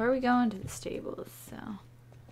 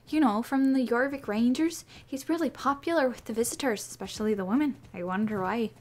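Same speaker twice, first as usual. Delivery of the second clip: a hint of a chatty stable girl, a bit louder; lightly voiced helper; 3 dB louder than usual. Helper sending the player to fetch Alonzo, lightly voiced. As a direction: keep it bright and gossipy about Alonzo.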